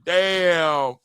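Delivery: a cartoon of pain after a punch; mock cry. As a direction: fake anguish of a flattened fighter.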